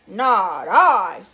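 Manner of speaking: low, very loud dog voice; gruff it out low and loud. Acted. Dog refuses to help the little red hen, gruff. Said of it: "said the dog".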